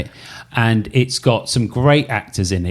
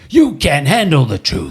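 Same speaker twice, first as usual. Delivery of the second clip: lightly voiced Nicholson. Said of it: "that's who I was supposed to be".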